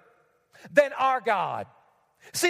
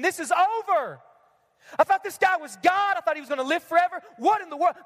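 mock despairing disciple; 3 semitones higher than usual. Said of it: "with all the other disciples thinking".

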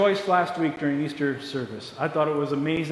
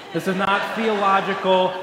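chuckling through the disclaimer; amused aside while laughing; 2 semitones higher, 3 dB louder than usual. Real, not acted. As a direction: laugh as you say it. Joke aside to congregation.

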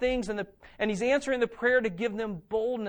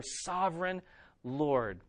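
reverent; 4 semitones lower, 5 dB quieter, slower than usual. Acted. Quoting the church's reverent prayer.

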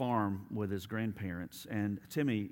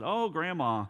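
sly big sister; 4 semitones higher, 7 dB louder than usual. Acted. Older sister Sally sweetly manipulates.

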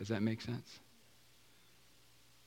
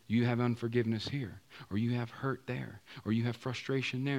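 quiet Holy Spirit; 3 semitones lower, 5 dB quieter than usual. Pretend. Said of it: "Holy Spirit said".

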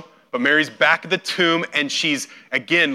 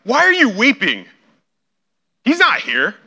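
loud, high, scolding demand; harsh rebuke; 7 semitones higher, 7 dB louder than usual. Shown as a demonstration. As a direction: bark it as an accusation. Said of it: "your first read of it was more like".

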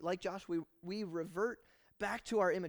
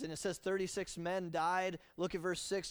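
ordinary talk

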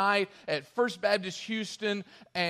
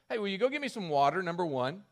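brash request; faster than usual. Retold or imitated. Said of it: "has the audacity to say".

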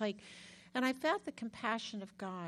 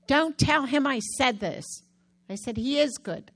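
louder, playful fake secret; mock aside; 4 semitones higher, 9 dB louder than usual. Teasing the therapist by praising him loudly within earshot. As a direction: tease him by saying it loud enough to hear.

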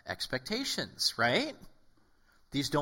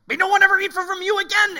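high, loud furious shout at the tree; angry curse; 12 dB louder than usual. Retold or imitated. Jesus, hungry, curses the fig tree in a loud high furious shout. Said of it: "like, angrily".

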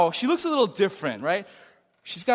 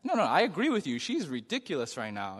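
calm. Retold or imitated. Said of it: "he's just really calm".

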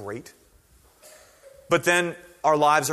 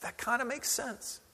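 mock listener; 10 semitones higher, 9 dB quieter than usual. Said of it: "But you're going".

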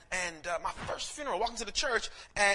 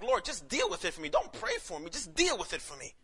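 high-pitched mock plea to God; retold pleading protest; 4 semitones higher than usual. Preacher retells his protest to the Lord, mock pleading. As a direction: plead in mild, playful exasperation.

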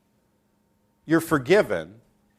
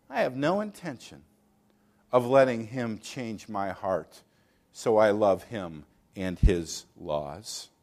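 slow, lower, deliberate defiance; stubborn refusal; 6 semitones lower than usual. Acted. Unbeliever refusing to let God change him, stubbornly. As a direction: dig in and refuse each word.

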